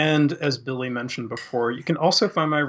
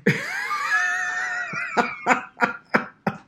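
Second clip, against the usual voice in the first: high squealing burst of laughter; a sudden high shriek of laughter. Real, not acted. Laughing at Taco Bell joke.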